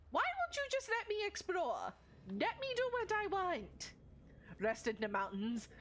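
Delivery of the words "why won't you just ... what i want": whiny complaint. Real, not acted. Complaining at the game.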